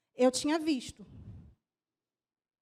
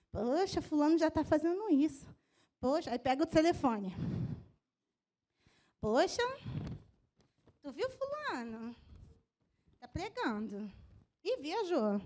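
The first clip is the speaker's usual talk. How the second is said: gossip voice; 2 semitones lower, 3 dB quieter, slower than usual. Retold or imitated. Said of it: "gente que fala".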